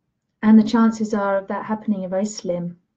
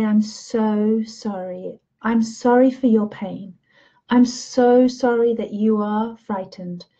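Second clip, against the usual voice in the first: tender sympathy. Shown as a demonstration. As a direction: comfort someone gently in pain. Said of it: "and I'd say".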